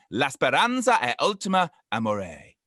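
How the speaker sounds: a second go at the Italian, a touch menacing; slightly threatening Italian. Shown as a demonstration. Retrying the Italian proverb for co-hosts, slightly threatening. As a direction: say the proverb again with a hint of threat. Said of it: "that sounded slightly threatening though".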